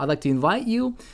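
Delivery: voice rises on final you. Showing a speaker raising the voice at the end: rising tone on final you. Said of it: "if you if you're raising your voice at the at the end".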